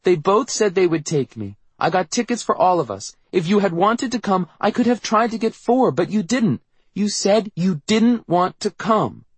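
put-on very high little-girl outburst; high-pitched childish protest; upset, insistent child. A narrator's reading. Voices upset Meredith arguing.

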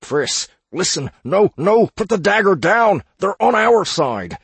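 high, loud urgent plea; urgent pleading. Acted. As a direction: plead with her to drop it. Begging friend to drop dagger.

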